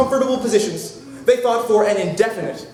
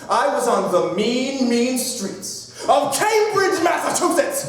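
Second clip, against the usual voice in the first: mock-dramatic reveal; 2 semitones higher, slower than usual. Telling the crowd where the plane landed, mock-dramatic reveal. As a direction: draw it out into an overblown announcement.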